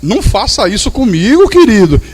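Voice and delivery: teasing, amused reproach; mock hurt, said through a laugh; laughing gentle rebuke. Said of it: "Mas rindo".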